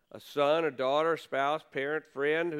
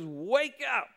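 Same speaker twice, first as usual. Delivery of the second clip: captain rousing a sleeping Jonah, mild raised call; retold yell; 3 semitones higher than usual. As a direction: call him awake, half-acted. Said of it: "comes and he yells at him".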